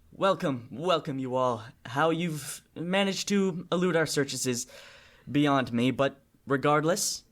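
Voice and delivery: smooth formal welcome with a hint of condescension; Cyrus. Cyrus receives the returning party at Shiftstone, formal mock welcome. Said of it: "He says".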